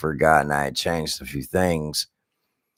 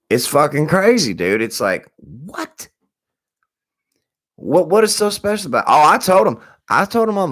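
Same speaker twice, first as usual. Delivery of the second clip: high outraged exclaim; 10 semitones higher than usual. Real, not acted. Outraged about internet price.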